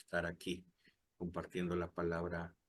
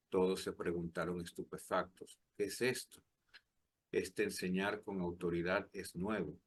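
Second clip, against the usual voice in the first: scripture reading. Acted. Reads the Gospel aloud.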